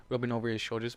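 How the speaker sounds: usual speaking voice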